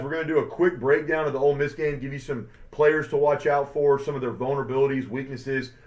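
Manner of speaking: fast auctioneer talk. Real, not acted. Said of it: "sorry if I'm talking like an auctioneer".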